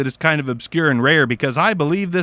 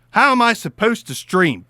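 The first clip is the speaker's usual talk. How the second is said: normal talking voice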